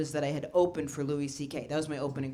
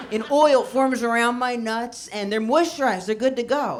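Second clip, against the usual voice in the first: laughing quote; 5 semitones higher, 5 dB louder than usual. Retold or imitated. Comic quoting friend about nuts, laughing. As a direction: retell his line while cracking up. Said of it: "He goes".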